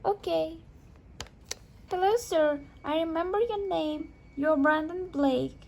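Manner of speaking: put-on a small boy greeting a grown-up; boy politely greeting his mom's date; child voice. Son meets mother's date.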